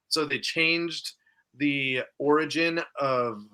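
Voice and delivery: running out of breath; words squeezed out on little air; breath catch. Real, not acted. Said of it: "I lost my breath there".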